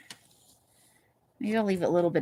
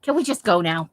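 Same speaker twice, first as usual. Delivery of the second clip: louder, mock-exasperated partner; 5 dB louder than usual. A long-together couple wanting to leave, exasperated. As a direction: say it like one half of a fed-up couple. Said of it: "couples who are exasperated with".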